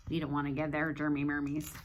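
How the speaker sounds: fast, low, silly whisper; hushed playful rhyme. Acted. Playful germ talk with kids.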